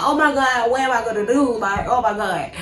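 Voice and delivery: mock inner panic, rising then sinking; retold panic. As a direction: blurt regrets, then run down into repeated dismay. Acted inner panic at salon.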